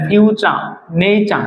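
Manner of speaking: ফিউচা, নেইচা with "ch" in the second syllable. Shown as a demonstration. Teacher modelling for learners, ফিউচা and নেইচা with t sounded as ch. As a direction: say ফিউচা and নেইচা as "fyu-cha, nei-cha". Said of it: "টির উচ্চারণ আসলে চ হয়".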